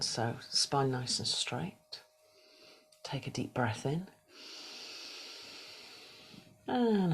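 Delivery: soft, unhurried meditation guidance with whispered cues; guided meditation. Acted. Yoga teacher guiding the class through a body scan, soft meditation voice. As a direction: ease the class into stillness, gently.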